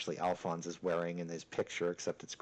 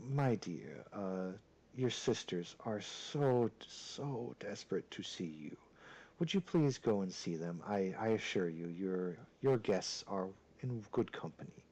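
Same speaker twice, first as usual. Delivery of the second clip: lightly voiced suave father, soft and measured; deep, suave voice; 5 dB quieter than usual. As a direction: coax gently, a hint of courtly smoothness. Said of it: "in a very deep and suave voice".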